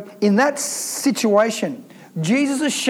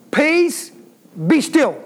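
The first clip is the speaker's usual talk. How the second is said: commanding Jesus; 5 semitones higher, slower than usual. Acted. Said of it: "He didn't talk like that. He said".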